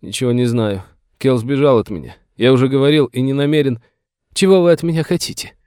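high, tearful protest; whining. A narrator's reading. Master denies knowing about the boy, whining. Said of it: "закончил он плаксивым голосом".

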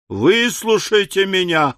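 high, urgent cry to be heard; desperate plea. A narrator's reading. Pickwick in danger begs the ladies, desperate. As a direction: plead over the uproar. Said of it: "доведённый до отчаяния".

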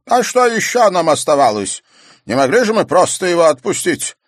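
high, loud, strained character voice; older man's voice. Acted. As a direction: tell it like an old club elder.

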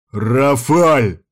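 loud call through the house; yelling for the maid. Acted. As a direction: bellow the name. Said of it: "заорал он".

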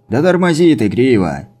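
calling out to the driver; shouting. Acted. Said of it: "крикнул он Гриве".

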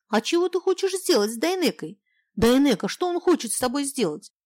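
put-on high, innocent child's voice; girl asking naively what her dad will do; little girl's voice. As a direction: ask like a curious small girl.

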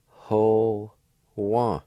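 ho, wa sounded out one at a time; syllable by syllable. Shown as a demonstration. Teacher sounds out the first part for learners. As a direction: spell out ho, wa slowly. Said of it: "First part's pronounced like this".

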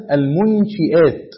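المنشئات said slowly, shin with kasra, munshi'aat; Hamza's kasra reading. Shown as a demonstration. Teacher to students: المنشئات slowly with kasra on shin. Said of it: "وقرأ حمزة".

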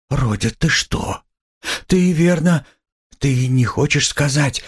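high, alarmed mother faltering; frightened. A narrator's reading. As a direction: begin in fright, pitch leaping up, then break off. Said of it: "начала была в испуге".

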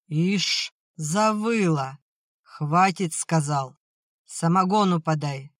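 put-on loud, slurring drunk snapping orders; drunken angry bark. Drunk father snaps at wife.

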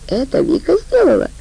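high, astonished question; guard can't believe Vika did it; surprised. Acted. Guard asks about Vika, pitched high in disbelief. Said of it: "удивился один из охранников".

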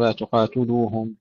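تقاتلوهم with u after ت, tuqaatuluuhum; wrong vowel. Shown as a demonstration. Teacher showing the error, تقاتلوهم with tu for ti. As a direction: round the ت of تقاتلوهم into tu. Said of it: "لا نقول".

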